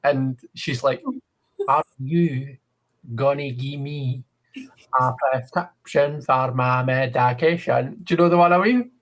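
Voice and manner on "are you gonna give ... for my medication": 1 imitating a Scottish woman. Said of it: "the way she speaks".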